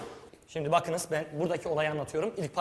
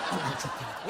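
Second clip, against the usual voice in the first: bad actor demo; 6 semitones lower, 7 dB quieter, faster than usual. Shown as a demonstration. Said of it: "Bize kötü oyuncu olur".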